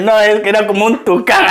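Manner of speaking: half-laughing retold correction; laughing while quoting. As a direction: let laughter spill into the quote. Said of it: "Y me dice mi Nelly". (citando a Nelly entre risas)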